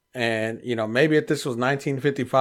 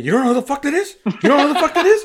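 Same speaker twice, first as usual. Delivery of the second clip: high, loud, laughing disbelief; mock incredulous shout; 13 semitones higher, 6 dB louder, faster than usual. Retelling Art scolding him at the shop, high incredulous laughing shout. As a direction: squeal it out in mock shock, laughing.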